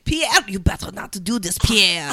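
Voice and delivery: hammed-up French skater, threatening; mock French diva threatening her partner; French accent. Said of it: "You did French pretty good".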